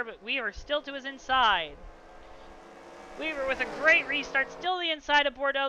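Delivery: energetic race announcer call; live race play-by-play. Real, not acted. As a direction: call the restart live with rising excitement.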